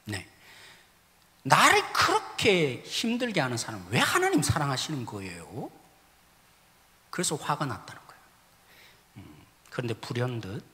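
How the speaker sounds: normal talking voice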